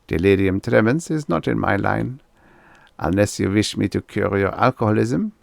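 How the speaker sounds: light German doctor voice; German accent. Acted. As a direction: advise like a German psychiatrist. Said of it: "a German accent".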